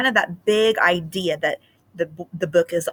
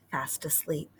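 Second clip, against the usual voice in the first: soft whispered aside; 4 semitones lower, 14 dB quieter than usual. Acted. Teacher reading to kids about sleeping mice, hushed whisper. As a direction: whisper so the mice don't wake.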